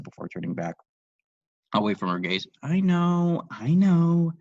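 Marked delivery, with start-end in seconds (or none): 2.6-4.3 high, loud smug "I know"; smirking. Acted. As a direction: toss it off with a smirk. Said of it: "Lisa smirked".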